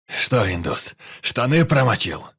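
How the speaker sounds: loud, rising taunt; mocking yell. A narrator's reading. Pyotr taunting the frightened Indian, loud mocking shout. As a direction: jeer at the scared man. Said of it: "Продолжал орать Пётр".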